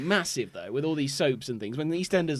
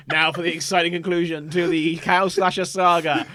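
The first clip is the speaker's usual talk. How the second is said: radio announcer; 4 dB louder than usual. Acted. Announcer parody.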